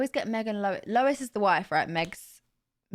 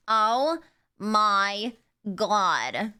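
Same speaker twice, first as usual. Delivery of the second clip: loud, drawn-out nasal sitcom wail; exaggerated nasal catchphrase, each word stretched; Janice from Friends; 6 dB louder, much slower than usual. Streamer attempting a sitcom catchphrase, loud nasal impression. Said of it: "I can't do Janice".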